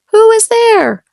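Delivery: high, loud wolf call through the door; the wolf answers the knock sharply; wolf asking. A narrator's reading. Wolf calls out to the girl at the door. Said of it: "asked the wolf".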